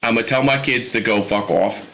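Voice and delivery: lightly demonstrated Pittsburgh accent; easygoing Pittsburgh accent demo. Shown as a demonstration. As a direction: give a casual sample of Pittsburgh talk. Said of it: "that's about the best you're gonna get".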